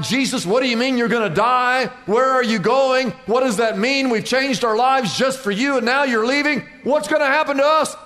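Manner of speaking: rising, panicky disciples; freaking out. Retold or imitated. Disciples panicking as Jesus says he's leaving. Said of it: "They all start freaking out".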